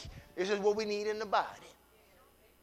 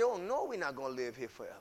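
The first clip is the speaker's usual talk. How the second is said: 1 laughing it off; 5 semitones lower, 9 dB quieter, faster than usual. Shown as a demonstration. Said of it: "You could just laugh and say".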